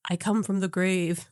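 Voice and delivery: a hint of a raspy dead man's voice; raspy old ghost. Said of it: "That's a good impersonation".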